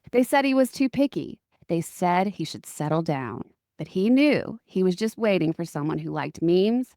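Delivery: dramatic trailer voiceover; movie trailer voice. Acted. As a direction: epic narrator read, a touch overdone. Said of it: "read them in very dramatic tones".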